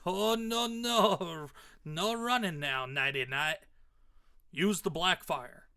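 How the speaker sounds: taunting, drawn-out Southern villain; Southern redneck accent. Acted. Redneck villain stops his foe fleeing, Southern accent. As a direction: catch your prey with a playful Southern taunt. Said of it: "accent for him came in".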